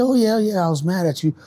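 high, loud mimicking of her; voicing the ex. Voicing ex-partner's reply.

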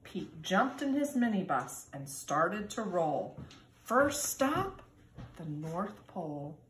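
put-on lively storybook reading for kindergarten kids; reading to children. A narrator's reading. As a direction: read it like storytime, sing-song and bright. Reads picture book to children.

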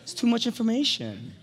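high, pleading "stop it" to his wife; mock exasperated protest. Husband to oversharing wife, high mock-exasperated protest. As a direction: act out begging her to stop oversharing. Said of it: "I'd be like".

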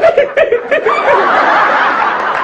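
high laugh-sob. Retold or imitated. Laugh-cry of woman.

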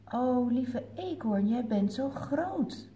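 a hint of a tiny squeak; squeaking mouse. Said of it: "piept Muis".

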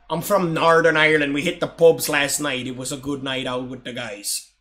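amateur Northern Irish accent. Shown as a demonstration. Streamer testing his Irish accent on a player, Irish accent. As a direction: try on an Irish accent, falling away at the end. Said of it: "how's my Irish accent?".

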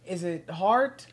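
slow, careful quiz question reading; quiz host reading. Acted. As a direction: read each option out slowly. Reads quiz questions aloud.

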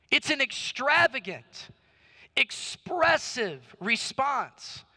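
emphatic promise to the congregation; impassioned preaching. Acted. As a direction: drive it home, stretching the key words. Preaches promise at full force.

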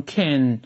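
"can" said as a reduced weak syllable; weak form. Shown as a demonstration. Teacher models a syllable for students, "can" in weak form. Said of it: "弱读时读成".

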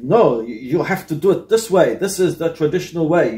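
a mild mock German engineer who insists on rules; weak German accent. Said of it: "sorry, my German accent".

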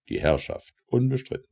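ordinary delivery

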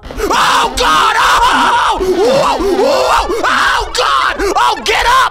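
high, loud frantic screams; panicked yelling. Real, not acted. Streamer fleeing the demon, screaming in panic.

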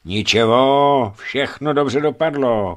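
slow, reassuring words to a wounded man; calm him down gently and slowly; Tamara soothing the dazed Oleg. A narrator's reading. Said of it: "chlácholila ho Tamara".

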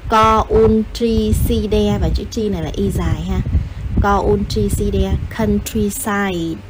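"countryside" sounded out in Vietnamese-style chunks, then said whole; spelling aid. Shown as a demonstration. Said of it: "chữ countryside mình viết là co này". (đánh vần "countryside" từng cụm rồi đọc liền)

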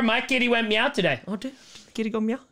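mock baby talk. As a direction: coo it like to a toddler.

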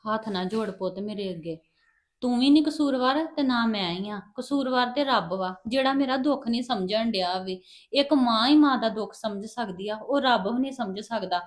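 quiet lament of a mother; soft grieving words. Acted. Mother keeps talking softly, grieving.

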